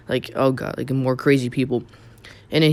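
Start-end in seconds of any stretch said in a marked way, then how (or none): 0.0-0.8 sighing, tired cop; weary sigh. Retold or imitated. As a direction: breathe it out with a sigh. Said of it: "He was like, sighing".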